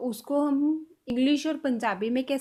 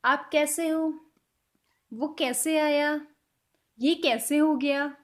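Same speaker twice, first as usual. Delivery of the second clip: slow example sentences; 2 semitones higher, slower than usual. Shown as a demonstration. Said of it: "हम बोल रहे हैं".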